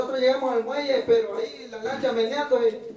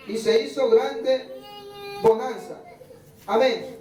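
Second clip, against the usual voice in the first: slow, measured Bible reading; scripture reading. Acted. Pastor reading Mateo to his congregation, slow measured reading. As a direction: read the passage aloud to the church, unhurried.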